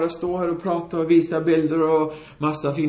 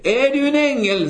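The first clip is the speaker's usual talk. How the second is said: acted amazement, pitched high and louder; high, raised-voice disbelief, retold; astonished question; 9 semitones higher, 4 dB louder than usual. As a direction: ask in wonder as the astonished wife. Woman astonished by unexpected helper.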